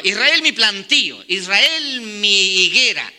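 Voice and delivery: slow, solemn voice of God lamenting; a grieving God calling his people, drawn out. Acted. Preacher voicing God over Israel, slow and solemn.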